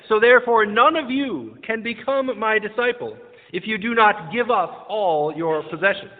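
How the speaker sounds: emphatic gospel declamation, slowing to the end; scripture reading. Acted. Preacher reads the closing verse to the congregation, declaimed reading.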